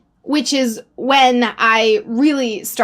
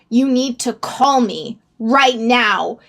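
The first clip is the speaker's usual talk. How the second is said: panicked pleading text; slower than usual. Retold or imitated. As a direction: drag out each please as if begging for rescue. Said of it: "frantically panicking".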